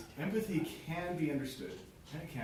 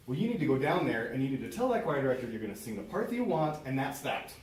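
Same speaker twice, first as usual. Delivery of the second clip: loud, pushy know-it-all; bossy advice; 6 dB louder than usual. Acted. Friend bossily telling her to demand soprano, loud and pushy. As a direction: lay down the law to her.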